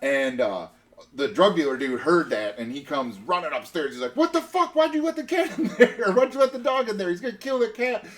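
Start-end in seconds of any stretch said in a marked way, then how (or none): 4.1-8.1 high, loud shouted outrage; mock furious shout; angry yell. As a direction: yell at him like a furious dealer. Angry dealer yelling at narrator.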